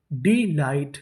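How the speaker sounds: डिलाइट split as डी, लाइट; syllable by syllable. Shown as a demonstration. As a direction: sound out डिलाइट in two parts. Teacher sounding out new word.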